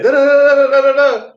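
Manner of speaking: very high, loud mock rant; squeaky, loud imitation of a friend going off; machine-gun tirade. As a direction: rattle off gibberish like a machine gun. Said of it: "going off like a machine gun".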